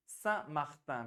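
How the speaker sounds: सैंट मार्टिन said the French way, nasal सां, silent t; French सैंट मार्टिन, nasal vowel, no final t; French Saint-Martin. Shown as a demonstration. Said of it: "सेंट जो अंग्रेजी का सेंट है वो गया सां". (French उच्चारण में सैंट मार्टिन)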